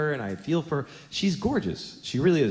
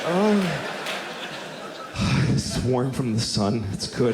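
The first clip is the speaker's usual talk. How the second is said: mock bliss; slower than usual. Acting out pleasure against car.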